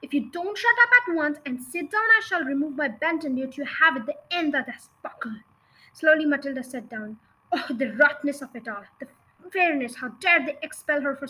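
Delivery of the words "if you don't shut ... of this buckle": threatening shout. Acted. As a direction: menace the child. Headmistress threatening with belt.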